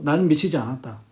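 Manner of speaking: low, subdued sincere declaration; acted-out son quietly insisting; earnest. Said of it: "어머니에게 진심으로". (낮고 진심 어린 말투)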